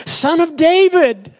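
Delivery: high, ringing call; crying out. Acted. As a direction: cry the title out high. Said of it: "crying out".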